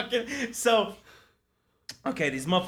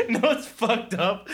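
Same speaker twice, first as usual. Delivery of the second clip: laughing; 4 semitones higher, slower than usual. Real, not acted. Laughing at the memory.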